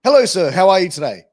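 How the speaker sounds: lightly voiced Robin Williams; cheery greeting. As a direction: greet the bouncer like a friendly star. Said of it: "in an American accent and says".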